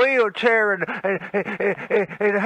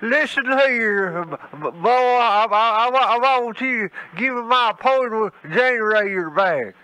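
put-on stuttering old man voice. Prank caller as stuttering old man.

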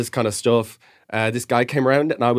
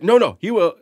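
insistent dad; 8 semitones higher, 5 dB louder than usual. Retold or imitated. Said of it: "He's like".

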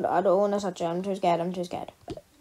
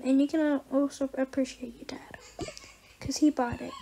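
whispered; 7 dB quieter than usual. Acted. Parent whispering to child.

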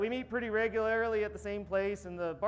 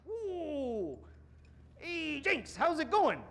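higher, cheery imitation of the bartender greeting; imitating the bartender; 7 semitones higher, much slower than usual. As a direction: chirp it like an overfriendly bartender. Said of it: "he was like".

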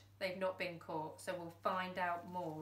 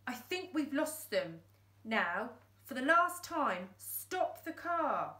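shouted; 3 semitones higher, 3 dB louder than usual. Acted. Fingers yelling at Dad to stop the car, shouted. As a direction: insist the car stop, for the last time. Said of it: "shouted Fingers".

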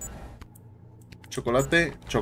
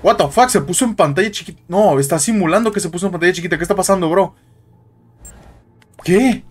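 higher-pitched confused alarm; alarmed disbelief; 5 semitones higher than usual. Real, not acted. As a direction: react as the game glitches on you. El juego se minimiza solo. (sorpresa alarmada, más aguda)

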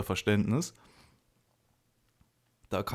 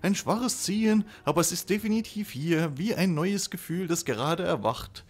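higher, hushed-wondering character; mystic character voice; 5 semitones higher than usual. Acted. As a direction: sense something, in character. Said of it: "dieselbe Person mal drei, vier Stimmen".

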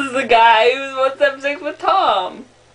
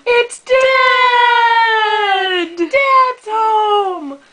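1 excited announcing; 5 semitones higher, much slower than usual. Acted. Acted family scene shouting.

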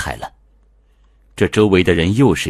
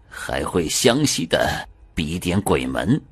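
cold scoff. Acted. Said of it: "冷声一笑".

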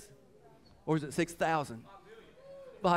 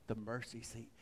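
soft, low, overwhelmed; dropped right down in pitch and volume; hushed reverence; 5 semitones lower, 11 dB quieter than usual. Real, not acted. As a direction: say it quietly, in awe. Overwhelmed by God's mercy.

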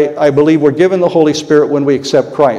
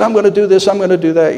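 mild mock yell, higher pitched; retold yelling; 6 semitones higher, faster than usual. Father retelling his upset son's outburst, mildly mimicked yelling. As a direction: imitate an upset son's yelling without going full volume. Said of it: "he started yelling".

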